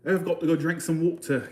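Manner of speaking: attempted English accent, amateur; a tentative stab at English. Shown as a demonstration. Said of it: "good at the English accent".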